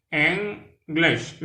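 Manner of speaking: English said /enɡleʃ/, first syllable EN stressed, high and clear; two clear syllables EN-glish; model pronunciation. Shown as a demonstration. Teacher modelling English for French learners.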